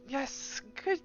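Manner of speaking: a hint of a smug noble; lightly voiced lord. GM voicing Lord Neverember.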